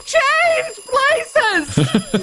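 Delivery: very high cartoonish cry; madcap shriek. Lady as the alarm clock goes off, madcap high shriek. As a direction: squeal it like a crazed tea-party hostess. Acted Mad Hatter lady's cry.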